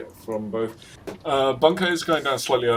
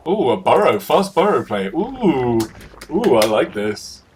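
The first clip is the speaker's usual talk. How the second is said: excited; 2 semitones higher, 6 dB louder than usual. Real, not acted. Excited at the burrow play.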